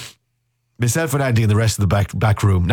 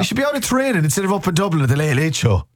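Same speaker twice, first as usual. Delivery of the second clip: higher, hammed-up outrage at the lads; mock fuming rant; 10 semitones higher than usual. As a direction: rant like a scandalised fan, pitched up. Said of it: "we're absolutely fuming".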